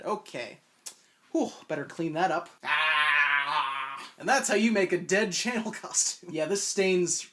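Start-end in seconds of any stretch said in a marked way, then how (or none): 2.6-4.0 long, open "aah" cry; drawn-out mock scream. YouTuber covered in fake blood, drawn-out mock scream. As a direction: let out a hammed-up, drawn-out yell.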